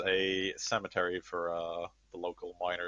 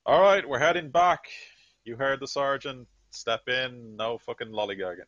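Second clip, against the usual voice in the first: much higher, louder barked orders fading down; sergeant's shout; 6 semitones higher, 9 dB louder than usual. Acted. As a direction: bellow at the squad to move out, then ease off. Sentinel barks orders at squad.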